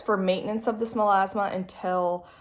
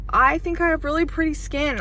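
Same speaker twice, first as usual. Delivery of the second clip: mouth full; 9 semitones higher, 6 dB louder than usual. Real, not acted. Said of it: "didn't say it with, um, food in my mouth".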